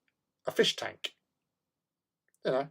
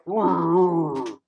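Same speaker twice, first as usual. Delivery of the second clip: jowly voice; 7 semitones higher, 8 dB louder than usual. Retold or imitated. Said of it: "great impression of a bulldog".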